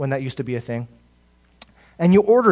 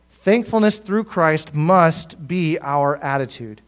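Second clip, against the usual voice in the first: slow repeated emphasis; slower than usual. Shown as a demonstration.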